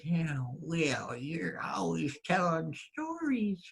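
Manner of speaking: a scoffing wife's voice, lightly done; wife brushing off husband's tall tale; sceptical wife. Acted. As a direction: doubt every word he says. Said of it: "And his wife said".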